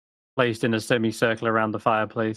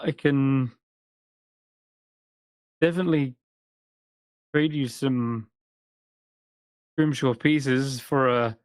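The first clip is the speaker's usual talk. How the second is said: teasing host; 3 semitones higher than usual. Acted. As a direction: joke as you strike a deal. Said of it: "looks around and says".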